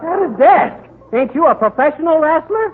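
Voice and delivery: high shocked disbelief; surprised. Acted. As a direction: blurt it out in shock.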